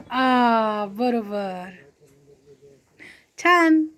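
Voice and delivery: low, softened, drawn-out approval; low, soothing well done; approving praise. Real, not acted. Praising toddler for putting it down.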